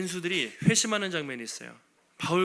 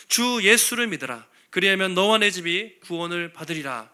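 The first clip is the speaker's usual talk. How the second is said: bold proclamation; 6 dB louder than usual. Acted. Paul's famous proclamation.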